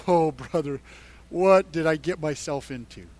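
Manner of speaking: low, soft retold misgiving; imagine his sinking doubts aloud, voice dropped; understated dread, pitched low; doubting David. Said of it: "if there are any doubts".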